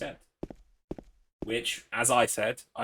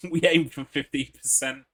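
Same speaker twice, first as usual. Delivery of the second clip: corporate spokesman; 3 semitones higher, 8 dB louder than usual. Pretend. Spoofing a company slogan.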